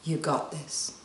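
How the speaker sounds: quiet. Shown as a demonstration. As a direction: breathe it out gently. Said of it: "So say it with me".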